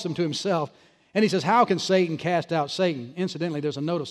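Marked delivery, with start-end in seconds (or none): 1.4-3.1 slow, sarcastic question. Retold or imitated. Jesus to the scribes, with a sarcastic attitude. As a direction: say it with an attitude, mocking. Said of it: "He says it with an attitude".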